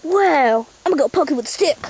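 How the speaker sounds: lightly hammed Aussie wildlife guide; curious Australian host. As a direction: narrate your approach in a put-on Australian accent. Australian host approaches the koala.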